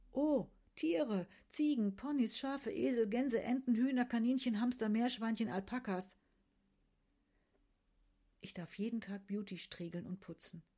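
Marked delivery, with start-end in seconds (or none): 0.1-6.2 high, loud, eager rattling off of animals; a thrilled girl showing off her favourite place; excited listing. Acted. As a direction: burst out listing every animal with delight. Nadi shows off the clinic animals.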